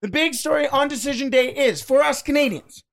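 just swallowed a fly. Real, not acted. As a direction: restart after swallowing a fly. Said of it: "I think I just swallowed a fly".

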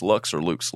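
"Lux or Lux", offering two different vowels; two name pronunciations. Shown as a demonstration. Host reading a reviewer's name, trying "Lux" two ways. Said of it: "I think that's how you say it".

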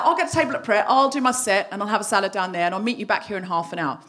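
a sensible, easygoing offer; smooth it over calmly; the reasonable way she could have told her husband. Shown as a demonstration. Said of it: "It could have been presented as".

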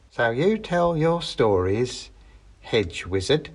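the witch toys with her captive; threatening old witch. Acted.

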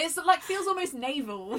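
high, loud, hammed-up old sailor; hint of a sailor voice. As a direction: ham up a salty sailor man. Continues the sailor joke.

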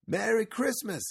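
high, bright cheery greeting; Axel. A narrator's reading. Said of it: "he said".

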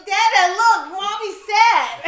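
high, loud, drawn-out announcement; gleeful little daughter. Retold or imitated. Daughter points out sad mommy to dad, loud mock glee. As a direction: crow it to dad, imitating a small child. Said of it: "And starts laughing".

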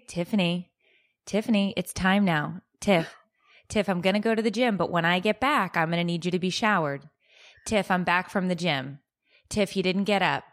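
mock-patient coaxing, a little low; restrained, even reminder to get up; patient wake-up call. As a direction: gently nudge a sleeper, imitating your own morning routine. Acts out patiently waking the co-host.

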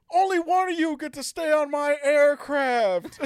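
imitating a bad villain's delivery; mocking villain line. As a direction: sneer it like a lazy movie baddie. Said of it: "He phoned that".

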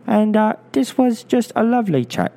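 put-on light London accent like Michael Caine; a hint of a Cockney film star. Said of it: "I sound a little bit like Michael Caine".

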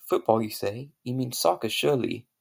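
put-on posh British accent. A posh Englishman greets an American, in a British accent. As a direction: play the proper English gent. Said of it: "I have a very good British accent".

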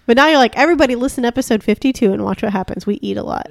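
talking while crunching food; chewing between words; mouth full. Real, not acted. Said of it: "sorry about the crunching".

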